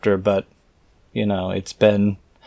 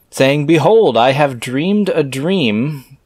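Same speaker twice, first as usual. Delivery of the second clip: slow, solemn scripture reading; 5 semitones higher, 4 dB louder, slower than usual. Acted. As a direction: intone it like an old holy book. Reads scripture aloud, slow.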